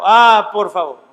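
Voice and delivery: slow, loud plea; pleading. Retold or imitated. Pastor voicing Paul begging Timothy, a slow, loud plea. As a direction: beg slowly, stretching Ah. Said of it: "Pablo aquí le está rogando".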